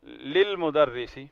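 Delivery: للمدرسی stretched very slowly, lil-madrasi; slow Arabic reading. Shown as a demonstration. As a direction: drag للمدرسی out syllable by syllable. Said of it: "یہ جار والمجرور ہے".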